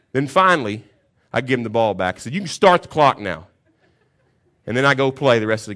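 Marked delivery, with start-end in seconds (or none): 2.3-3.5 loud, laughing, self-satisfied; smug. Retold or imitated. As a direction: hand it back like a king. Handing ball back after tirade.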